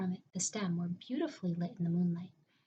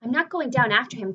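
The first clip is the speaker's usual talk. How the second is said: misread line; 3 semitones higher, 13 dB louder than usual. Acted. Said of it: "cried James".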